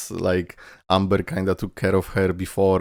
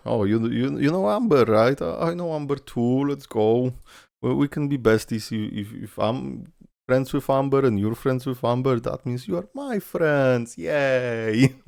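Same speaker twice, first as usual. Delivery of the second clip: put-on higher, eager girlish voice; mock Collei voice; 5 semitones higher than usual. Streamer voicing Collei to the viewers, higher and eager. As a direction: gush like an excited new friend.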